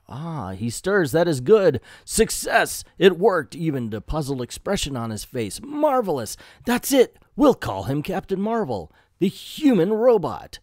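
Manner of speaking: lightly voiced elated scientist; mock triumph at a creation coming alive; triumphant scientist. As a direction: build from pleased to exclaiming, pitch jumping up. Voices the scientist's triumph as robot wakes.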